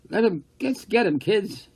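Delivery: loud, high jeering chant; rowdy shout. Acted. Kid shouting to the crowd to get them. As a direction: yell it like a rowdy kid egging others on.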